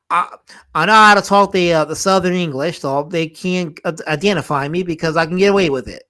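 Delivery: lightly put-on Southern accent. Streamer showing off his Southern English so they can't identify him, Southern accent. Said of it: "That was my southern accent".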